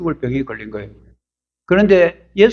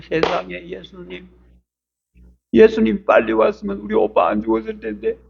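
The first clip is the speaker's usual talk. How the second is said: pleading, reproachful and rising high; a grieving sister blaming Jesus, voice climbing; protesting complaint; 6 semitones higher than usual. Acted. Sisters confront the late Jesus, high reproachful complaint. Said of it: "하고 따지는 거예요".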